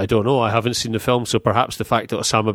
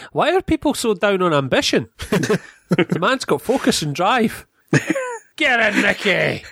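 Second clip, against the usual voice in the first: high, laughing mock enthusiasm; mock admiring, laughing; 9 semitones higher than usual. Co-host mockingly cheering on the gangster, laughing and high. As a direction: cheer on the gangster through giggles.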